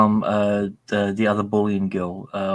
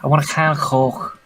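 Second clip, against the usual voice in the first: southern English accent; 5 semitones higher, 3 dB louder than usual. Shown as a demonstration. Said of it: "emphasize your O's".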